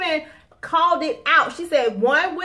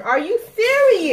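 annoyed; 8 semitones higher, 5 dB louder than usual. Real, not acted. Upset about wrong dressing.

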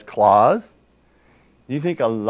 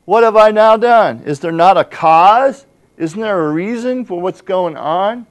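loud, higher, slower indignant cry; indignant shout; 6 semitones higher, 7 dB louder than usual. Acted. David answering his brother with a loud indignant cry. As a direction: throw the question back hard. David's defiant reply preached.

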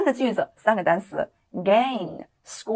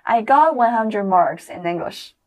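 slow, louder drill line; slow repeat-after-me; 3 semitones higher, 4 dB louder, slower than usual. Shown as a demonstration. Teacher repeats with get for the class, slowly. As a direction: lead the class slowly, with a bit more volume. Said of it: "再用get来一次".

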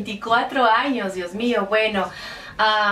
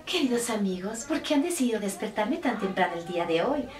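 Cinderella voice; 6 dB quieter than usual. Retold or imitated. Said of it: "creo que dice algo más o menos así".

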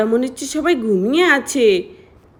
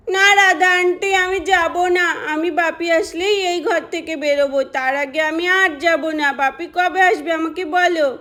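put-on sulky child; 4 semitones higher than usual. Sulking child refuses to come.

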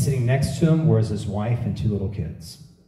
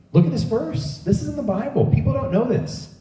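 fervent emphasis; 11 semitones higher than usual. Real, not acted. Preaching emphasis.

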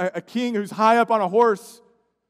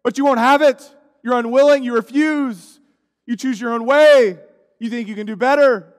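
pleading rebuke; 3 semitones higher, 8 dB louder than usual. Acted. Voicing Jesus' grieved rebuke.

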